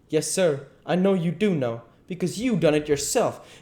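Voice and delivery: high, emphatic charge; heated accusation. Acted. King accusing the duke of hiding the money, heated. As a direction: throw the blame straight at him.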